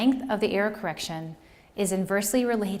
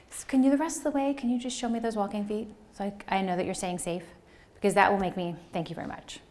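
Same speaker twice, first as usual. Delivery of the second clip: a hint of the kindly teacher voice. Shown as a demonstration. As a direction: ask the child sweetly to keep walking. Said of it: "This is my elementary school teacher voice".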